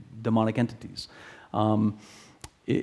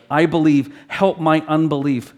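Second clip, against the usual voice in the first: mild yell; 4 semitones higher, 5 dB louder than usual. Acted. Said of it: "the father yells out".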